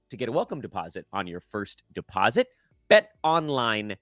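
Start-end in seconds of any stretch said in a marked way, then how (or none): 2.9-4.0 drawn-out slow ad read, fading off; slow announcer sign-off; slow ad tagline. Acted. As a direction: savor the sponsor slogan slowly.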